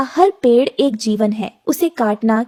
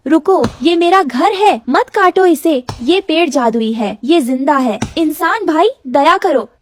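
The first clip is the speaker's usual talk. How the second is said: higher, urgent bird plea; pleading Rano bird; 4 semitones higher than usual. Acted. Rano begging human to spare her tree, pleading. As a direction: beg him to stop, pitch raised.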